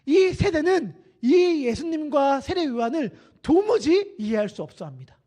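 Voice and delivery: ordinary delivery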